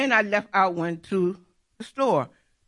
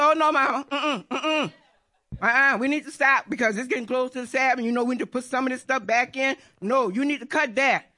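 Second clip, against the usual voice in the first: imitating a son's quick, fussy refusal; insistent objection; 2 semitones higher, faster than usual. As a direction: cut her off and hurry her to stop. Son insists she stop working.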